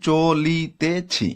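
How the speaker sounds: চলিতেছি stretched slowly, every syllable drawn out; slow syllable-timed. Shown as a demonstration. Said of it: "এখানে চারটা দল আছে". (ধীরে টেনে চলিতেছি)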